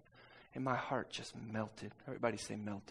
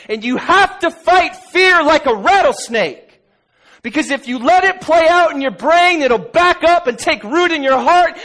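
much higher, much louder shouted sermon; full-force preaching; 10 semitones higher, 24 dB louder than usual. Acted. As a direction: climactic pulpit shout.

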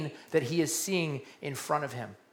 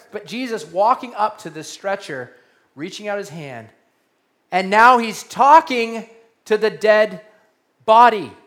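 ordinary delivery

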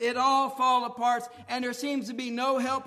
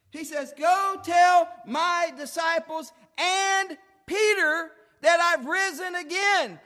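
preaching at full force; 4 semitones higher, 5 dB louder than usual. Acted. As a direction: proclaim it to the congregation. Preacher retelling Jesus' words.

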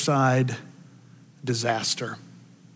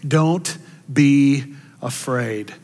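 reassuring; much slower than usual. Acted. Jesus speaking to Simon.

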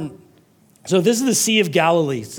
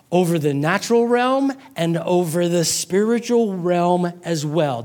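ordinary delivery

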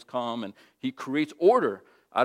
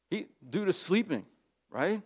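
normal talking voice

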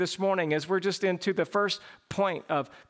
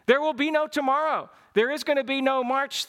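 raised, urgent call that time is up; urgent voice of God; 4 semitones higher than usual. Retold or imitated. Preacher voicing God calling the church, urgent and raised. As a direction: sound the alarm that this is the last day. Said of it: "He might be saying".

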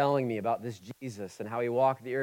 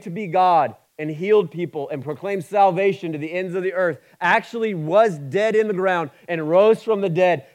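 loud and much higher, building fervor; fiery sermon climax, loud and high; preaching at full force; 6 semitones higher, 10 dB louder than usual. Acted. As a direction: shout the resurrection claim to the room.

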